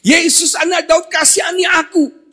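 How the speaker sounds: high, shouted plea for mercy; loud, repeated desperate call; Bartimeus. Acted. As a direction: cry out to be heard over the crowd. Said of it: "Ketika Bartimeus berseru".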